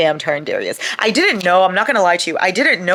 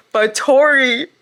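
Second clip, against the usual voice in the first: high, loud exasperation; exasperated; 11 semitones higher, 5 dB louder than usual. Real, not acted. Fan scolding Tori for her choice, loud high exasperation.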